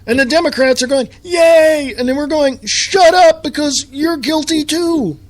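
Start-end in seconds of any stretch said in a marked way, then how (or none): 1.2-1.9 high, sarcastic little yay; mock cheer. Mocking Democrats cheering. 2.6-5.2 high, hammed-up snap of shut up; mock retort. Mock retort to cheering Democrats.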